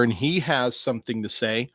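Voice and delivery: ordinary delivery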